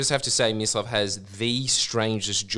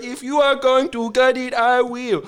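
mock kid voice; 12 semitones higher, 4 dB louder than usual. Vietnamese kid offering to gut the eel, high and bold. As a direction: play the cheeky kid.

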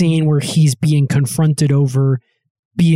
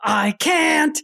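high, breathless through laughter; cracking up too hard to speak; real giggling; laughing helplessly; 9 semitones higher, 4 dB quieter, much slower than usual. Real, not acted. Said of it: "overcome laughing".

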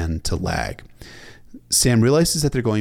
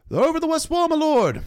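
loud, very high battle scream; screamed report; 5 dB louder than usual. A narrator's reading. Smallwood to the old bear over the horns, screamed. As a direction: scream it up to your commander. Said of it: "Lawrence Smallwood screamed at the old bear".

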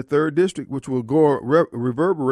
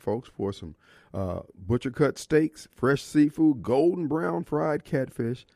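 radio ad read; 2 semitones lower than usual. Acted. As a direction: pitch the drugstore to listeners. Reads a restaurant ad.

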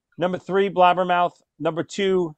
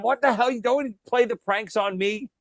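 Ralph; 5 semitones higher than usual. Retold or imitated. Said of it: "Ralph throws it at him".

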